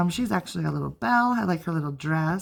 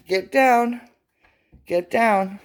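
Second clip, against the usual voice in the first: louder, firm order to an animal; firm pet command; 3 semitones higher, 6 dB louder, slower than usual. Real, not acted. Host breaks off to correct her pet, firm and loud. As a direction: order the dog off, loudly.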